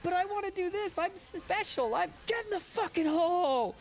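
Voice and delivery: high, loud mock-furious yell; Orny Adams yelling. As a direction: slam it out like a raging comic. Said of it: "he starts slamming the mic".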